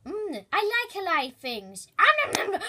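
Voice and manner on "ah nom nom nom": chomping. Acted. Eating the live fish.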